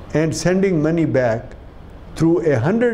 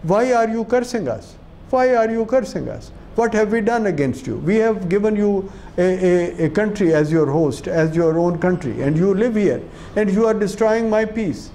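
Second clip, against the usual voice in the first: imitating the young British girl; 4 semitones higher than usual. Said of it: "and asks them".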